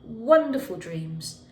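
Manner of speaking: put-on gentle storybook narration for kids; reading to children. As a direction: tell it like a bedtime story to little ones. Teacher reads picture book aloud.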